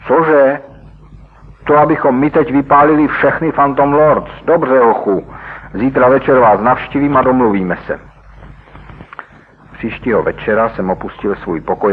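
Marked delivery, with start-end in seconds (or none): 0.1-8.0 high, loud, incredulous then taking charge; surprised outburst. Acted. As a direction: burst out in disbelief, then agree coolly. Nicky reaguje na žádost o pomstu. (Nicky užasle a hlasitě vyhrkne)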